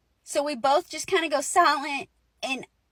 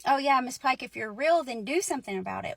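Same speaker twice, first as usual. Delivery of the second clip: mocking friend. Friend goading the ghost to act, mocking. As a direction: lightly mimic a friend daring a ghost. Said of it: "she was sorry that she mocked her".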